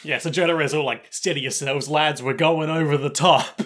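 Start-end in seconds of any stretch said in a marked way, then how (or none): 1.1-3.6 lightly played trench commander; rally the troops in mock-heroic style; war-movie officer. Jotaro as officer before a charge, mock rallying. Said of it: "sort of a war movie".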